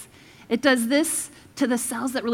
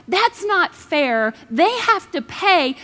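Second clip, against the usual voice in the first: mild mock anger; 4 semitones higher, 4 dB louder, much slower than usual. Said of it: "Or we're angry".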